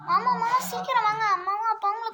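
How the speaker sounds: put-on child calling her uncle to hurry, loud and urgent. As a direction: shout for him to hurry.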